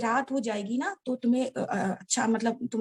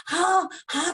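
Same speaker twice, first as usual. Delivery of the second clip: mild mock yell; 4 semitones higher, slower than usual. Father crying out his answer to daughter, mild mock yell. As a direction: imitate a shout at half strength. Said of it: "करके चिल्ला रहे हैं".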